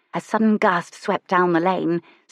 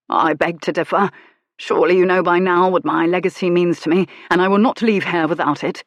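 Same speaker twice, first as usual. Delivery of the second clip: louder, firm gentleman's voice; 4 dB louder than usual. Acted. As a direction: insist coolly on what's his. Lucian demands his legacy.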